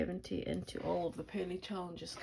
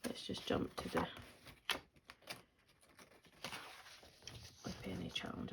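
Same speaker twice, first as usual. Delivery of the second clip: talking around a pen in the mouth; muffled, pen held in mouth; pen in teeth; 9 dB quieter than usual. Real, not acted. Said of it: "I'll just put the pen in my mouth".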